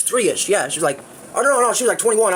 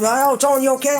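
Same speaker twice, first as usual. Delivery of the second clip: imitating mom; 6 semitones higher than usual. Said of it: "my mom wakes up".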